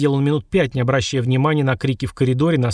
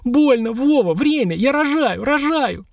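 high, pained cries of a woman giving birth; wife in labour calling to her husband in pain; moaning in labour pain; 11 semitones higher, slower than usual. A narrator's reading. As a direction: cry out from the contractions. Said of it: "вдруг застонала".

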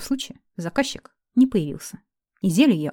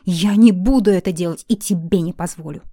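shouting refusal; 12 dB louder than usual. A narrator's reading. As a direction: shout him down, fully refusing. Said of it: "Настала моя очередь кричать".

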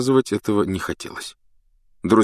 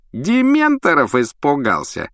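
drawn-out taunt; 7 semitones higher, 3 dB louder than usual. Acted. Malfoy taunts Harry.

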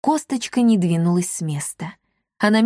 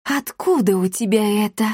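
ordinary delivery, nothing marked

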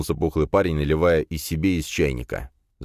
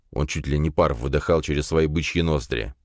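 plain reading voice

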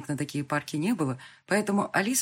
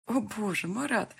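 melting tenderly; 5 semitones higher, slower than usual. A narrator's reading. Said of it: "растаяла я".

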